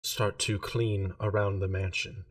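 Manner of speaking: slow, flat monotone delivery; a lightly voiced numb servant. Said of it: "It's been very monotone this whole time".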